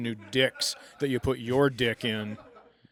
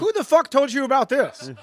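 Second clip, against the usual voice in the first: high, loud laughing disbelief; real laughing outburst of disbelief; incredulous; 10 semitones higher, 6 dB louder than usual. Real, not acted. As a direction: burst out in amused shock. Laughing disbelief at odd info.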